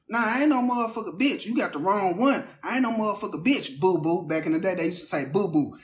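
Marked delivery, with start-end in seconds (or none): 0.1-4.3 sassy sister. Retold or imitated. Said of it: "my sister jumping in".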